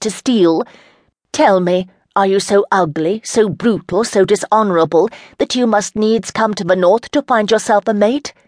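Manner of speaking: mock him with disdain; lady insulting the knight, full of contempt; contempt and disgust. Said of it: "her voice was filled to overflowing with contempt and disgust".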